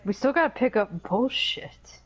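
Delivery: whispered grumble; grumbling whisper. Retold or imitated. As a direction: whisper the complaint under your breath. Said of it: "She's like".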